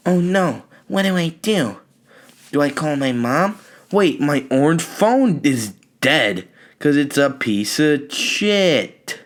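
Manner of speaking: put-on panicked kid. Thirteen-year-old cornered in an alley, panicking. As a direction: squeak it out like a scared kid. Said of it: "So now I'm like".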